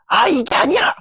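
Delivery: sudden high frustrated cry, rejecting the take; frustrated outburst. Retold or imitated. Speaker acting a perfectionist who scraps their work, high frustrated cry. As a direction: snap out at your own mistake.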